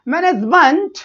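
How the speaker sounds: "मैनेजमेंट" with the final मेंट pushed out, rising; intonation demo. Shown as a demonstration. Teacher showing intonation to students, "मैनेजमेंट" rising on its last syllable. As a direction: lift and lean on the end of "मैनेजमेंट". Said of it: "तो यही बेटा sound का intonation होता है".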